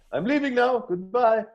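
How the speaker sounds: very high squeaky cartoon voice; talking eyeball. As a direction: squeak a cheery exit. Eyeball character exits.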